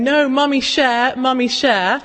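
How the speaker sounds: a hint of a crying two-year-old begging; tearful toddler pleading. Mum imitating her toddler's tearful pleading in the car, lightly voiced. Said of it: "She was saying".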